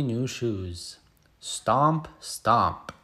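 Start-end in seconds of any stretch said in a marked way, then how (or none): 1.4-2.1 bright rising stomp, sing-song; first stomp tossed upward; playful stomp. Pretend. Onomatopoeia in kids' story. 2.2-2.9 stomp dropped low and falling; second stomp grounded low; heavy stomp. Pretend. Onomatopoeia in kids' story.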